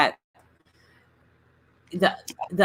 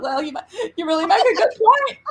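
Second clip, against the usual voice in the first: sarcastic reply; 11 semitones higher than usual. Retold or imitated. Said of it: "And I'm like".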